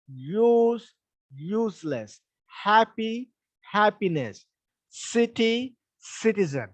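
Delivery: teacher drilling word pairs for stress; first-syllable stress drill. Shown as a demonstration. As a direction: model each pair, base word punched, derived word falling. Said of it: "still the stress is on k".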